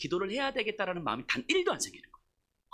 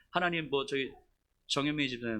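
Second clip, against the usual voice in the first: reluctant, indistinct praying; mushy mumbled prayer; 4 semitones lower than usual. Acted. Pastor praying for a disliked member, mumbled. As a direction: slur the name into a mumble. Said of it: "흐물흐물 이렇게 기도하는".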